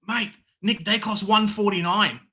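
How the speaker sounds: pumped-up bragging; excited boast. Retold or imitated. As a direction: show off the bargain pick. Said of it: "I'm like".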